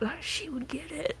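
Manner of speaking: hushed conspiratorial aside; whispering. Pretend. Character quietly sicking someone on her, whispering. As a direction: drop to a very soft, sneaky whisper. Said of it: "Like, I'm whispering".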